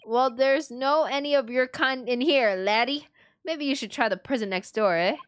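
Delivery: lightly Scottish, scornful; a hint of a sneering Scottish guard; Scottish governor. The governor dismissing the Easterners in a light Scottish accent. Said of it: "What is this accent?".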